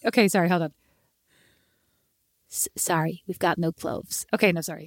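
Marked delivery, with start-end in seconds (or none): 2.5-4.3 low, soft mock Dublin accent, slowed down; retry it as a put-on city Dublin voice. Shown as a demonstration. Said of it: "not everybody's that country in Dublin".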